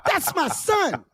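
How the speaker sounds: high, reined-in protest; mock pleading. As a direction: quietly appeal to the hecklers. Acts out protesting to hecklers.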